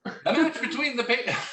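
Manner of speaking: breaking up into laughter; laughing through the words; laughing mid-line. Real, not acted.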